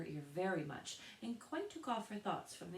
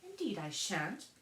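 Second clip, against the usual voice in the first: impatient; 4 semitones higher, 4 dB louder than usual. A narrator's reading. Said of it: "Alice said rather impatiently".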